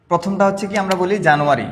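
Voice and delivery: ordinary talk, nothing marked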